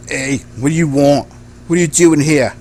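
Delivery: put-on gang tough with a British accent. Gang member challenging strangers at the door, British accent. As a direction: lightly put on a British gangster voice. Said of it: "Why are you, all of you British first?".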